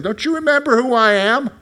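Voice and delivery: a wounded God reproaching his people. Acted. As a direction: thunder it down as the Lord reminding them. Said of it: "here's what God is saying".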